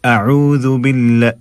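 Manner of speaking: careful tajweed "अऊज़ु"; correct Arabic dhal. Shown as a demonstration. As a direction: recite "अऊज़ु" with tongue-tip dhal. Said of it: "अऊज़ु नहीं".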